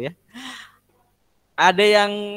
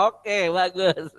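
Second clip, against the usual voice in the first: amused; much slower than usual. Real, not acted. Amused by student's answer.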